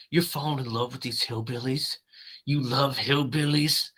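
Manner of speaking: mocking sneer. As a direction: scoff at her, lightly voiced. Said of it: "And he's like".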